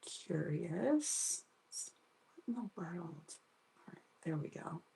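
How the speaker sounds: soft half-whisper to herself; hushed, distracted muttering; muttering to self. Real, not acted.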